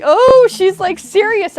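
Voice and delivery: high-pitched mock awe of students; hushed-up gossip turned into a high exclamation; imitating music students. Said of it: "they were all like".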